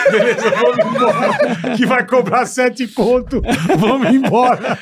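laughing mock quote. Mocking the motel, laughing.

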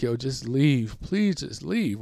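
tearful plea. Retold or imitated. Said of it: "I start crying".

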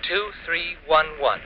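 spelled out slowly for her to copy; slow dictation. Acted. Husband dictating the number, slow and deliberate. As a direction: dictate each digit slowly so she can write it down. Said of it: "Got it?".

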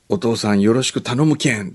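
mock Hakata dialect. Bride who overdosed greets father-in-law, in mock Hakata dialect. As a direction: greet politely in a Hakata accent. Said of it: "博多まで行っちゃってたみたいな".

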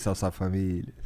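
low put-on greeting voice; deep catchphrase voice. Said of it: "Tem que ser três vezes".

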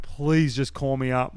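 slow, drawn-out plea; pleading. Retold or imitated. Player retelling his wait for a call-up, pleading. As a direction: plead it slowly, acting out the desperation.

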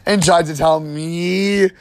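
high-pitched, laughing indignation; playful outrage. Real, not acted. Guest calling out the cohost's joke, high mock outrage. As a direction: call them out in amused disbelief, pitched high.

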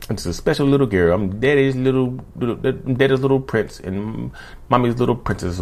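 hammed-up spoiled brat; mock pampered child voice. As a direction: coo it like daddy's little princess. Mocking a pampered narcissist.

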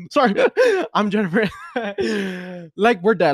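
giggling through the words; laughing. Real, not acted. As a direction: laugh as you say it. Laughing self-introduction.

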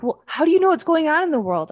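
mock the parents' disbelief; imitating parents.

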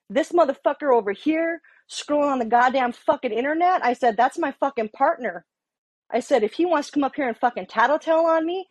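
retold angry rant. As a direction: replay a fed-up rant about a partner. Retold rant at sergeant about partner.

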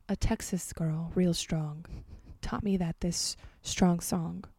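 dramatic reading of song lyrics; reading pop lyrics aloud with mock gravity; interpretive read. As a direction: read the lyrics like a heartfelt poem. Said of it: "do an interpretive read".

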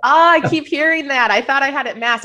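slightly congested voice, a cold coming on; stuffy with a cold. Real, not acted. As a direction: talk through a light head cold. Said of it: "I have a little bit of a cold too".

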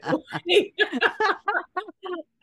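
loud, high embarrassed giggle. Real, not acted. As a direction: burst into a giggle. Laughs after blushing.

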